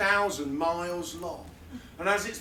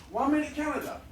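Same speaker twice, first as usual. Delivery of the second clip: triumphant title call; 7 semitones higher than usual. Acted.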